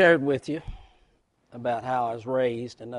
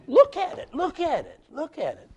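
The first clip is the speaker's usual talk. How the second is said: fading awe; 13 semitones higher, 3 dB louder than usual. Retold or imitated. Prodigal son marvels at meal.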